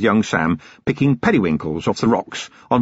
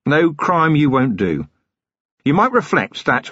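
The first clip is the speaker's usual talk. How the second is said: lightly voiced weary copper, cold threat; a hint of a hard-bitten watchman; Vimes, grim and controlled; 4 semitones higher than usual. Vimes lecturing the killer.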